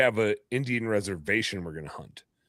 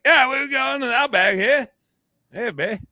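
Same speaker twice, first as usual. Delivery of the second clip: Australian accent pitched way up, hammed-up; a cartoon Aussie bloke, much higher; mock Australian accent; 13 semitones higher, 4 dB louder than usual. Teasing his friend with a silly Australian accent. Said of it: "drop your Australian accent and just be like".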